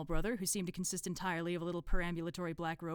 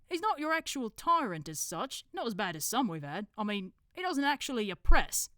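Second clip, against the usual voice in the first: slightly raised put-on accent, weighing it up; qualify it like an authority; Brother Watchtower; 5 semitones higher, 8 dB louder than usual.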